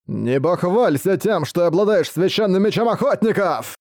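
медленный, выше, злобный голос; бросить угрозу чудовища; угрожающий злодей. Acted. (злобный голос монстра)

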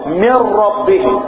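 slow recitation of من ربه with the ra merged; tajweed recitation. Shown as a demonstration. Teacher reciting من ربه slowly for students. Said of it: "لا تكررها هكذا".

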